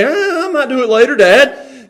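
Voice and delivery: high, whiny stalling; evasive son.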